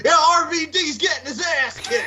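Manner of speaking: high, slow mock wrestler drawl; slow mocking wrestler taunt; Undertaker impression. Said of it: "Undertaker looks back and he goes".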